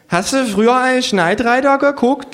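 put-on high, slurred drunken kangaroo; slurring kangaroo. A narrator's reading. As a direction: slur it high like a sloshed kangaroo. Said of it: "lallt das Känguru".

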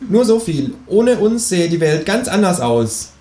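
high-pitched kangaroo voice; secretive kangaroo. Acted. Kangaroo keeps the conspiracy from the narrator, high creature voice. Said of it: "sagt das Känguru".

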